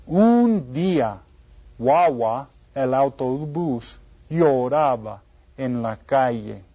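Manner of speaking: slow, deliberate storybook reading; reading to children. A narrator's reading. Teacher reads the bus story for children to follow, slowly. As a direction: read slowly with clear phrases and a lifted opening.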